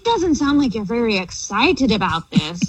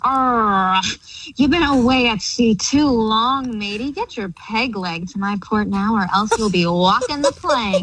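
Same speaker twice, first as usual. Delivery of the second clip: pirate voice. Pretend. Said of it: "talking like a pirate".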